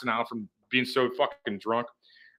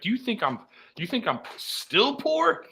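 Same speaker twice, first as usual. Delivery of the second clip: much higher, slow, hammed-up indignant yell; mock offended shout; 9 semitones higher, 3 dB quieter, slower than usual. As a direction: yell it like a grilled cheese is an insult. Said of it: "It's like".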